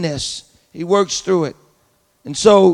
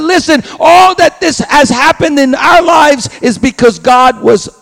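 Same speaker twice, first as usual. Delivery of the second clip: impassioned declaration; 4 semitones lower, 4 dB louder than usual. Pretend. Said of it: "But he said".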